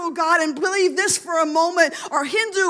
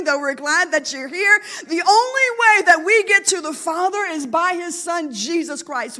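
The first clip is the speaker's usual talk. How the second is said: louder with a catch in the voice; tearful emphasis; 4 dB louder than usual. Real, not acted. Preacher moved, telling the congregation the only way, tearful. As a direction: push through the tears. Preacher emotional at salvation point.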